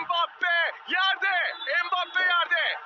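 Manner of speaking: screaming football commentator. Real, not acted. Live goal commentary, shouting.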